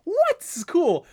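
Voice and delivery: high, loud, rising what; excited disbelief. Retold or imitated. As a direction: squeal it in amazement. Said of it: "and we're like".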